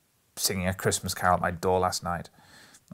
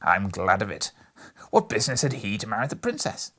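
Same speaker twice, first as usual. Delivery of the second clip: put-on high, loud, breathless childlike excitement; between laughing and crying; 4 semitones higher, 4 dB louder than usual. A narrator's reading. Scrooge gushing over storybook heroes, half laughing, half crying. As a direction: gush with tearful glee. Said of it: "in a most extraordinary voice, between laughing and crying".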